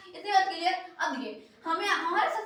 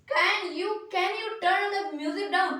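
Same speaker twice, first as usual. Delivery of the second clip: slow demo; much slower than usual. Shown as a demonstration. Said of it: "अब देखिए क्या है".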